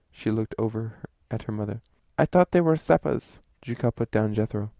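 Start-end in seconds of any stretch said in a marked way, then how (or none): 2.2-3.4 put-on high young girl's voice. A narrator's reading. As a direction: voice a ten-year-old girl. Girl answers.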